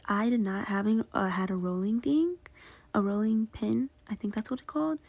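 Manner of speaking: slurring around a retainer; wearing a retainer. Real, not acted. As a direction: speak with a retainer in. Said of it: "sorry, I have my retainers in and I slur".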